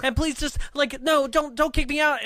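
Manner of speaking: high, loud begging; mock desperate pleading. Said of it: "so desperately, like, eye-rolling".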